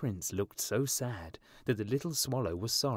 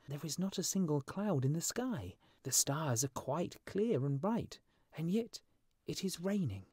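higher-pitched, puzzled bird character; fussy little swallow; 5 semitones higher than usual. Acted. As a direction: complain in a lighter, higher voice. Swallow character complains about rain.

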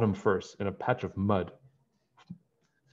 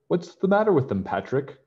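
crying out; 7 semitones higher, 4 dB louder than usual. A narrator's reading. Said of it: "cried his father".

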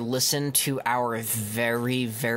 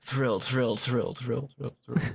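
deadpan Bruce Willis. Acted. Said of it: "Angela would be like Bruce Willis in The Fifth Element".

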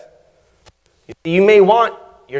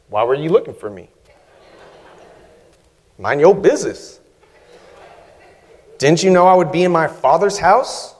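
flippant, dismissive talk-back; snarky comeback. Retold or imitated. Preacher voicing boy Jesus talking back to his mother, snarky. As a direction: brush his parents off with a smart mouth. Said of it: "This sounds like a snarky comeback".

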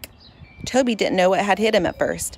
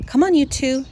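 coaxing; 6 semitones higher than usual. Acted. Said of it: "she coaxed".

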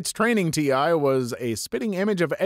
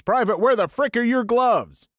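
higher-pitched drill sergeant demand; mild mock yell; 6 semitones higher than usual. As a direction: imitate a yelling sergeant without full volume. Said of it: "the D S screams".

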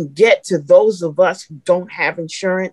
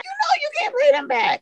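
the same line again, far higher and a little softer; emotional repeat; 3 dB quieter than usual. Real, not acted. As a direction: let the voice jump up high on the repeat.

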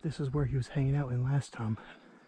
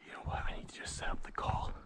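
whispering; 7 dB quieter than usual. Real, not acted. Stalking, quiet.

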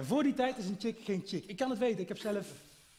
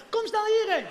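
urgent phone call; 11 semitones higher, 9 dB louder than usual. Retold or imitated. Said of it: "En dan ga je jouw vriend bellen".

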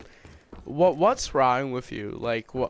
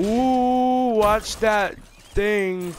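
mock excited warning; 5 semitones higher, 4 dB louder, much slower than usual. Real, not acted. Taunting teammate in game.

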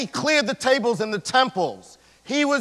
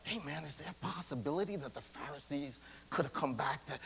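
casual musing; 4 semitones lower, 17 dB quieter, faster than usual. Acted. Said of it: "I'm like".

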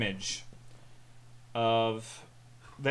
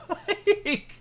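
high burst of laughter; laughing; 5 dB louder than usual. Real, not acted. Laughing after impression.

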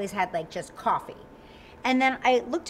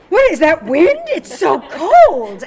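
loud, high, slow mock complaint; hammed-up shivering whine; mock whiny friends; 5 semitones higher, 13 dB louder, slower than usual. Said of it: "They are like".

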